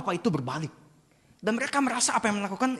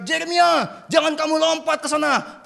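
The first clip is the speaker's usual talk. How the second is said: high-pitched alarmed yell; father's shout; 10 semitones higher, 3 dB louder than usual. Acted. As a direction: call out urgently to stop the child. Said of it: "Maka Papa berteriak".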